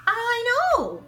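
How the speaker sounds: high squeal of amazement; amazed aside. Acted. Reader to children, marvelling high. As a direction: gasp it out, wide-eyed.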